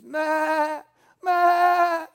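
high, loud bleating ma; sheep bleat. Shown as a demonstration. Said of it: "It's the best sheep noise I can do".

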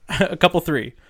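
light farmer imitation; imitating farmer. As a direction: echo the farmer's phrase. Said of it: "he would say".

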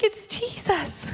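soft, high, drawn-out acted wonder; hushed, lovestruck mock answer; hushed blissful reply. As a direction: breathe it out quietly, dreamily. Blissful answer after secret prayer.

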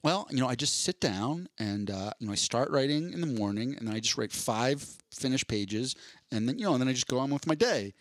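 casual, unbothered retelling of a writer's routine; matter-of-fact. Retold or imitated. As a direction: toss it off as if it were nothing. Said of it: "he said it so matter-of-factly".

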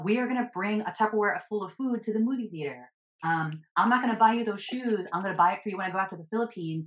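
a hint of a penny-pinching mom lecturing; mock frugal parent. Voicing parent's money messages.

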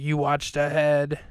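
slow, stretched-out mock outrage; mock extra mad. Ken to Philip over spoiled show, mock mad. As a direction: imitate an accusation, drawing the words out. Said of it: "Ken's extra mad".

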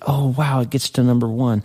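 light up at the news; happy surprise. Pretend. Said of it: "and you're so happy".

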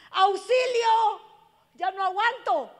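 long, high, loud desperate call; cry for help. Pretend. Preacher voicing a hurting daughter, loud, high cry for help. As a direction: cry out slowly for rescue. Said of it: "lo único que te están diciendo es".

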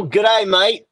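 tentative attempt at an Australian accent; American trying on an Australian accent; Aussie accent. Shown as a demonstration. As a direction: have a go at an Aussie greeting. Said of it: "give me your best Aussie accent".

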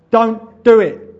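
slow, loud, high warning; urgent last-second plea, each word drawn out; warning inner voice. Acted. Inner voice stopping a dad's last word, urgent warning. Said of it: "there's a voice in me going".

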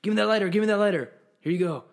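loud, high imitation of a bug-hunting coworker; worked-up mock taunting; frenzied reenactment. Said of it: "I'll reenact it".

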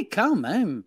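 slow, drawn-out touch of French accent. Real, not acted. Host reacting to the French caller, catching a French accent. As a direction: slip lightly into a France French accent. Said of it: "t'as dit quand même avec l'accent français".

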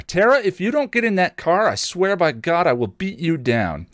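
high, pushy threat; threatening brother. A narrator's reading. Donnie threatens Tara to get in the car, high and hard. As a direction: menace her from up in your voice.

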